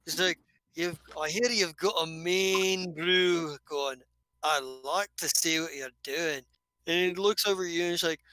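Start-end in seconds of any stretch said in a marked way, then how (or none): 0.7-6.4 lightly voiced hearty dwarf; friendly dwarf easing into the chat. Dwarf asks about brew.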